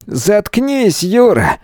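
high-pitched, scornful dismissal; disgusted. Acted. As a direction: shut them up with open contempt. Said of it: "брезгливо бросил Дмитрий".

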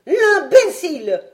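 exclamation furieuse, bien plus haute et plus forte, lente; colère. Acted. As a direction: cracher l'insulte de rage. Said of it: "rouge de colère". (le savant furieux contre Fred, exclamation rageuse)

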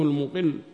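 المقل said "al-muqill", u then i, doubled l; damma, kasra, shadda. Shown as a demonstration. Teacher spells out the vowels, المقل said "al-muqill". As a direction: say المقل as "muqill" with a held final l. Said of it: "بضم الميم وكسر القاف وتشديد اللام".

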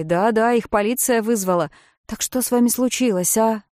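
baffled boatman, raising his voice; puzzled rescuer Jim. Acted. (Джим, громко и растерянно)

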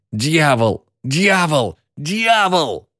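крик ужаса, всё выше с каждым словом; нарастающий панический вопль; испуганный крик. A narrator's reading. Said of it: "выпучил глаза и закричал". (кричит от ужаса, повышая голос)

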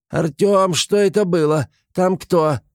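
high-pitched startled cry; frightened cry. A narrator's reading. Gremlin fleeing what he found behind the cloak, frightened cry. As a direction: cry out in alarm, voice jumping high. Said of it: "в страхе закричал".

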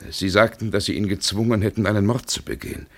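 fast, rising agitated protest. Acted. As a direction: rush the accusation out, shaken. Heated confrontation over murder.

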